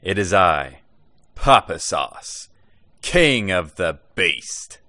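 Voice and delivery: slow, grand royal voice; grand announcement. Acted. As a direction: announce yourself like a king. Grand self-introduction skit.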